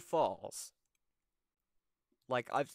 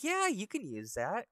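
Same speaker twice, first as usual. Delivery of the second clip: high-pitched, eager yes; agreeable monkey; 11 semitones higher, 4 dB louder than usual. Acted. Monkey lending the old man his razor, agreeable. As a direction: offer it in a raised cartoon voice. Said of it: "And he's like".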